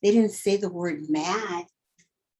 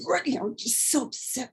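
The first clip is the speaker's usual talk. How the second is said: whispered; 4 semitones higher, 5 dB quieter, faster than usual. Shown as a demonstration. Teacher whispers about anger.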